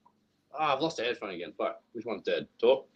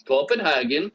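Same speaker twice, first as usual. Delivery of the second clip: lightly put-on Danish accent; 4 dB louder than usual. Prompting a friend to do Danish, mock Danish accent. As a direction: say it like a mock Dane. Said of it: "You did the Danish".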